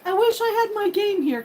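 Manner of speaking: a hint of a wistful boyfriend; imitating boyfriend. Retelling her boyfriend missing his console, mild mock whine. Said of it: "he would always be like".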